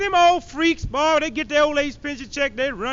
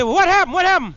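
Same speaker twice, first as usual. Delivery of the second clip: higher and louder, eager asking; eager crowd; 7 semitones higher, 5 dB louder, faster than usual. Retold or imitated. Crowd asking the professor, mock eager. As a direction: people pressing for news. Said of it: "People say".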